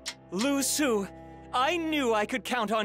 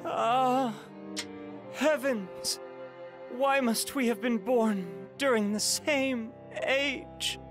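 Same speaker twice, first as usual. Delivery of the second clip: high, pained cry to the heavens; anguished lament; 4 semitones higher than usual. Acted. Defeated man to the heavens about his rival, anguished lament. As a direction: bemoan fate in raised pitch.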